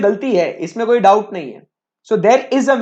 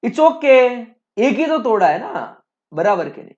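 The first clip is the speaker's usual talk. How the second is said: easygoing dad; 3 semitones higher than usual. Retold or imitated. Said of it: "तो पापा बोलते हैं".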